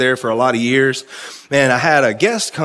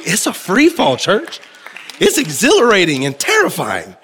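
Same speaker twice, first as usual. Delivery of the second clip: higher, rising call to the church; excited exclaim; 5 semitones higher than usual. Real, not acted. Preacher exclaiming to the church, pitched high and excited. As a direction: lift it up with excitement.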